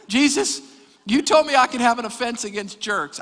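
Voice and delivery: high-pitched pleading objection; mock protest. Acts out objection to Jesus.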